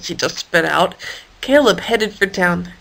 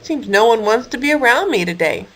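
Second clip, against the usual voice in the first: sadly. Acted. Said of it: "Harold said sadly".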